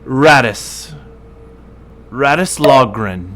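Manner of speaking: lightly voiced tiefling, deliberate pauses; tiefling introducing himself. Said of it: "his hand to his chest and say".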